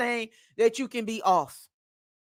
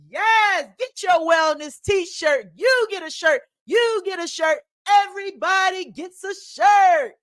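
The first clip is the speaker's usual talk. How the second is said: mock giveaway; 5 semitones higher than usual. Giveaway parody, rising to a shout.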